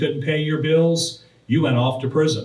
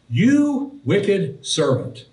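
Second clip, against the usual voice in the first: stern rebuke; 5 semitones higher, much slower than usual. Retold or imitated. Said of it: "he said".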